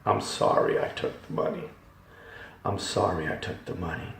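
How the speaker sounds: quiet, sinking plea fading to a breath; a hushed, haunted apology overheard in hell; softly repeated pleading. Retold or imitated. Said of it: "all I could hear them keep saying is".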